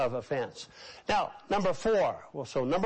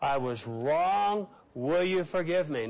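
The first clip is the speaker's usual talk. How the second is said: slow unison confession. Shown as a demonstration. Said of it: "Say it again".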